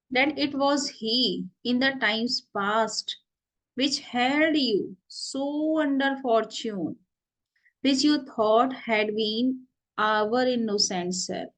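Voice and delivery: slow, measured recitation of verse; play reading. Acted. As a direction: read the old lines out slowly for students. Reads the play aloud.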